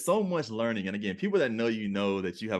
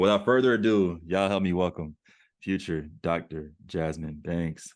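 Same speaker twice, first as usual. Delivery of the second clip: announcing the guest; 2 semitones lower than usual. Real, not acted. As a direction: present her like a headliner. Host introduces guest to audience.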